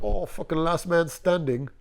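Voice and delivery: lightly imitated British accent, drawn out; old British man. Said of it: "he was an old British dude".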